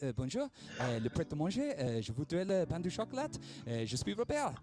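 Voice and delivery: hammed-up schoolroom French; halting attempt at a French accent; put-on French accent. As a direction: order in an affected French accent. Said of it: "I put on the accent".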